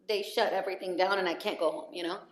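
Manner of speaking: usual speaking voice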